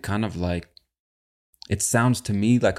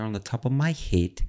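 imitated South African accent, head said like "hate"; 2 semitones higher than usual. Podcast host quoting the woman from the clip, imitated South African accent. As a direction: lightly mimic a South African vowel on head. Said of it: "she said something like".

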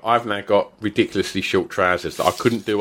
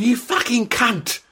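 high-pitched, drawn-out mock outrage; retold angry insult; 12 semitones higher, slower than usual. Woman in ferry corridor to passing dad, imitated outrage. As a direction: imitate an angry woman hurling abuse, higher and slower.

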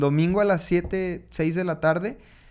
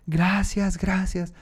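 higher, imitated crying-out of thanks; mock tearful cry; 5 semitones higher, much slower than usual. (grito lloroso imitado, sin alzar el volumen)

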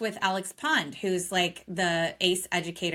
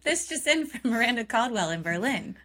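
announcing like a TV anchor; lightly mock newscaster intro; news anchor voice; 3 semitones higher than usual. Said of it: "My foreign correspondent".

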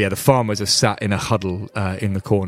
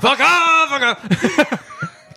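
laughing; 4 dB louder, much slower than usual. Shown as a demonstration.

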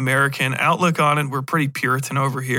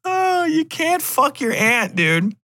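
mock scolding; 12 semitones higher than usual. Mock scolding a character for incest.

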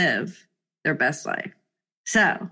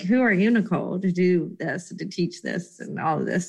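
imposter syndrome voice; 4 semitones lower, 3 dB quieter than usual. Retold or imitated. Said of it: "imposter syndrome sit on me and be like".

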